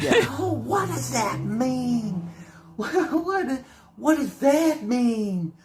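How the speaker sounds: cracking up while asking, half shouting; incredulous laughing. Real, not acted. Mocking the Antichrist interview answer.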